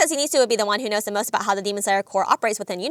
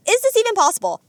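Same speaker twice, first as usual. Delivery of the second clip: higher, louder mock scream of disbelief; Zenitsu; 9 semitones higher, 5 dB louder than usual. Narrator quotes Zenitsu seeing the spider, mock panicked scream. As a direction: imitate a panicked cry, pitched up. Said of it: "is to immediately scream".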